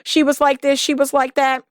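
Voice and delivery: lightly voiced man blaming his ex. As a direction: pile the blame on the ex-wife. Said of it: "if you hear a bunch of".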